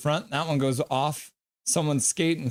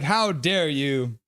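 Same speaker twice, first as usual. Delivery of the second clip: mock indignation; much slower than usual. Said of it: "He's like".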